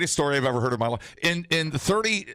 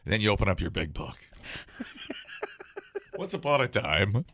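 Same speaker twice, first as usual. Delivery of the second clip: hushed creepy legend telling; 3 semitones lower than usual. Pretend. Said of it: "retell this story like a Christmas poem".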